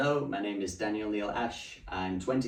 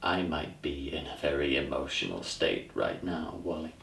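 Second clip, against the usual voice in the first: troubled monologue character; 8 dB louder than usual. Acted. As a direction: confide your distress to a friend, growing more agitated. Performs an audition monologue.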